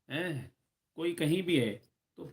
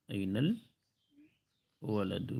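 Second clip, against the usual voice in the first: أين الولد stretched out very slowly and softer; slow model repeat; 4 semitones lower, 6 dB quieter, much slower than usual. Shown as a demonstration. Teacher repeating for students, very slow. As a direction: drag each word out for learners. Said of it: "boy کہاں ہیں".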